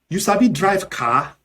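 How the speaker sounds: Nigerian Pidgin. Shown as a demonstration. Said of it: "in Nigerian Pidgin English".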